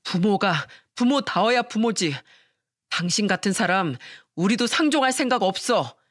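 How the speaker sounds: husband telling off his mother-in-law, understated; mild shout. Acted. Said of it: "저는 그런 장모를 보고 소리쳤습니다". (단호하게 살짝 높인 꾸짖음)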